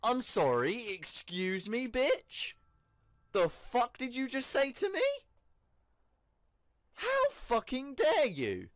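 high, loud, affronted comeback; hammed-up outrage, voice pitched right up; indignant outrage. Gamer snubbed by a game character after a long walk, indignant outrage.

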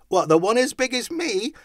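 high, loud, incredulous question; astonished lad; amazed boy. A narrator's reading. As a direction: shout it back in wonder. Boy amazed, calls back.

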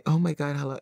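high, little mousy voice; a mock-timid, high-pitched squeak of a greeting; a singer's mock mousy voice. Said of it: "that little mousy".

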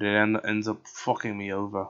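slipping into a slight British accent; light British lilt. Real, not acted. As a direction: let a little British creep in. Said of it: "I went a little British there".

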